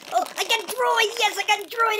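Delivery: delighted at the reveal; excited. Real, not acted. Kid unboxing a toy for viewers, excited.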